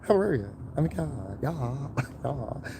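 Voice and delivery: high, bright put-on white voice; code-switching voice. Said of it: "they're like".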